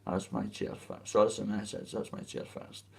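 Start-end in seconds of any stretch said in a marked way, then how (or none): 0.1-1.1 whispered under the breath; whispered repeat. Shown as a demonstration. Repeating the phrase again, now in a whisper. Repeating the line, different takes. 1.9-2.9 whisper. Shown as a demonstration. Repeating the line again.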